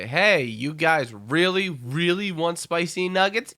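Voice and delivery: slow, drawn-out tease; lightly voiced hype announcer. Fast-food chain teasing its fans, slow hyped-up pitch. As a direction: stretch out each 'really' like a teasing promoter.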